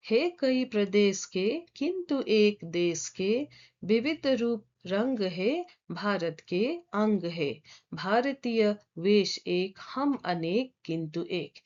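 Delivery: measured verse reading; poem recitation. Acted. Teacher reading the first stanza before explaining it, measured recitation. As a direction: read the stanza out phrase by phrase.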